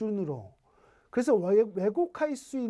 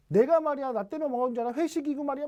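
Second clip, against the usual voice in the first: shouting husband; 6 semitones higher, faster than usual. Retold or imitated. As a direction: play the husband shouting excuses back. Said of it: "막 변명하면서 소리 막 지르요".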